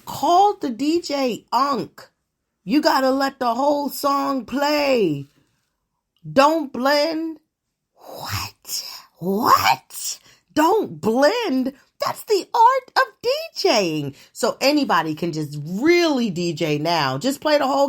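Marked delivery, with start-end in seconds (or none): 0.0-7.4 imitating the youth yelling at the DJ; mock young crowd. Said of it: "they don't want D Js to blend songs anymore". 8.0-14.2 high disbelieving what, rising to a squeal; real disbelief at the youth; incredulous. Real, not acted. Outraged at no blending.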